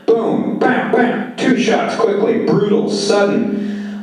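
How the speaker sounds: high, punchy gunshot words; excited action narration. A narrator's reading. George shooting the pimp, narrated high and sudden.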